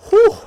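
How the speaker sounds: high breathy "whew" of amazement; amazed whew. Real, not acted. Reacting to huge goal numbers, amazed whew. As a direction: let out a high, impressed whoop of breath. Reacts to near seventy goals.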